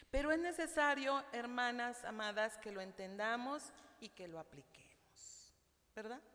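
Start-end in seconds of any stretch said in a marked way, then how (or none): 2.6-6.2 whisper. Real, not acted. Intimate aside to the sisters.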